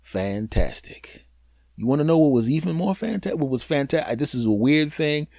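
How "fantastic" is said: slow, dry, sarcastic fantastic; slow dry sarcasm; deadpan. Retold or imitated. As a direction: drag it out flat and unimpressed. Deadpan refrain.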